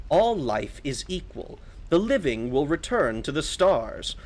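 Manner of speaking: slow, affronted holy figure; measured, imperious priest voice; haughty priest. Acted. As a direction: rebuke an insolent child with stately weight.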